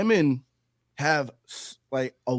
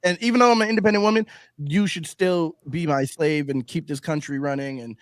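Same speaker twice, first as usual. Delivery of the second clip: mock entitled woman. Mocking women's entitled attitude.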